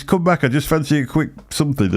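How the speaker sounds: lightly high, teasing plea; mock Hanky. Friend chasing Lloyd, lightly high teasing coax. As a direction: coax him back, half-laughing. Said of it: "He says".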